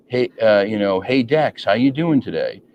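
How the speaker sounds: "today?" lifted in a mild rising question tune; questioning lilt. Shown as a demonstration. Host demoing question inflection to guest, mild rising tune. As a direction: let "Dex, how you doing today?" rise gently as a real question. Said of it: "that inflection where it sounds like I'm asking a question".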